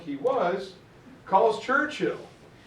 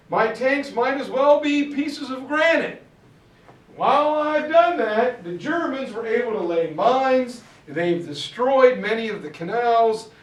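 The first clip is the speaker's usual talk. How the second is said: a louder, higher, exasperated Patton; Patton griping; 3 semitones higher, 3 dB louder than usual. Retold or imitated. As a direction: vent like a frustrated general stuck in place. Patton complaining to Ike.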